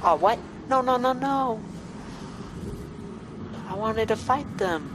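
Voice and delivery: shocked outburst. Real, not acted. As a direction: cry out in disbelief. Reacting to cutscene surprise.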